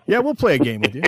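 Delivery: a hint of a dorky teenager, swooping in pitch. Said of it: "these two high school kids are like".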